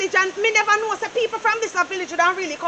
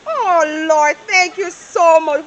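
louder, slow gushing thanks; overjoyed thanks; 4 semitones lower, 4 dB louder, much slower than usual. Acted. Mother thanking her son for ten barrels, slow and gushing. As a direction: pour out your gratitude.

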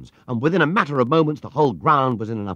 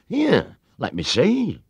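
concerned; 6 semitones higher, 5 dB louder, much slower than usual. A narrator's reading. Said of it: "looking most concerned".

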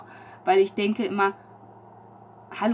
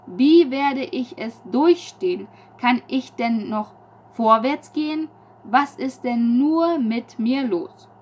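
raised, slow, searching recital of her own lines; poem reading; 2 semitones higher, 5 dB louder than usual. Acted. Poet reads her own lines to viewers, slow and raised. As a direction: read the poem out as if lost between two choices.

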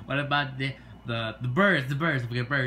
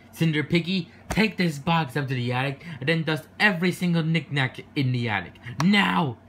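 bossy command; 3 semitones higher, 5 dB louder than usual. Acted. Stepmother bossing Cinder Piggy.

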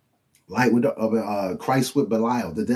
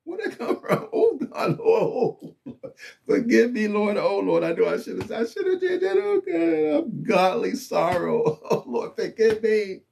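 much higher, half-laughing plea for forgiveness; convicted sinner; 10 semitones higher than usual. Retold or imitated. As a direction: cry out high and rattled, caught in sin. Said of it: "And you're like".

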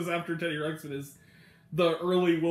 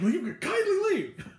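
retold comeback; 11 semitones higher than usual. Retold comeback in Muppet sketch.

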